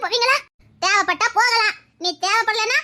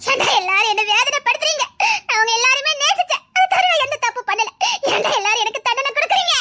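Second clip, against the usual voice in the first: tearful, wounded protest; anguished crying out. Acted. Girl asking why everyone punishes her, anguished. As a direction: cry out the hurt through sobs. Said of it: "வேதனையில கத்திட்டு இருக்கா".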